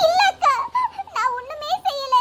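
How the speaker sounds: tearful protest of innocence; acted tearful denial. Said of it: "நீ எப்படி அழுதுகிட்டே இருக்கா".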